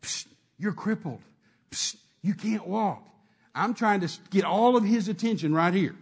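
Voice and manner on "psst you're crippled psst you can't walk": devil whispering. Retold or imitated. Devil on the shoulder murmuring lies, lightly voiced. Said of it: "the devil sitting on his shoulder saying".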